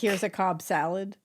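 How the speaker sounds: mock-nonchalant, everyday delivery; casual, normal. Likening billion-dollar deal talk to serving salad, offhand. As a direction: offer it like an everyday lunch order.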